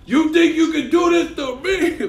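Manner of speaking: high, loud hammed-up threat; menacing movie villain. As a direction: play the crazed intruder big. Voicing the man in the bed.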